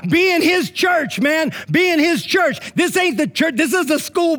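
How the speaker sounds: high, slow, forceful words; emphatic preaching. Real, not acted. Pastor driving the point home to the congregation, forceful and slow. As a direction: drive each word home. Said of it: "preaching at full force".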